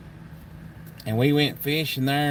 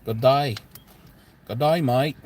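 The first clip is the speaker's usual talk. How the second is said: mock Australian greeting, a bit louder; cheery fake Australian hello; Australian accent; 6 dB louder than usual. Kentucky vlogger greets Australian viewer in mock Australian accent. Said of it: "I'll try my accent on Australia".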